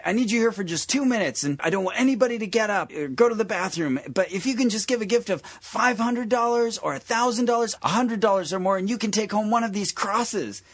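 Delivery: high-pitched preacher fundraising voice; mock televangelist asking for money. Imitating Larson's money pitch.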